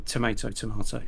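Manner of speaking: "tomato" first with a long A like "may", then "tomato" with a broad "mah"; tomato both ways. Shown as a demonstration. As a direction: say "tomato" the American way, then "tomato" the British way. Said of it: "sounds better with a British accent".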